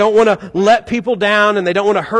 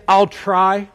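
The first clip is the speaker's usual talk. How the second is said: noncommittal. Retold or imitated. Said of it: "the one I hear most often".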